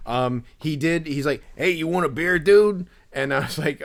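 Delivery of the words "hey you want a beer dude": high dude voice, loud on the last word; intense dude. Retold or imitated. Collector offering a stranger a drink, loud dude impression. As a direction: offer it as that in-your-face guy. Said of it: "that's pretty good".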